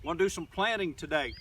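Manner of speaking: talking while chewing; words around a bite of asparagus; mouth full. Real, not acted. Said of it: "Pardon me while I chew".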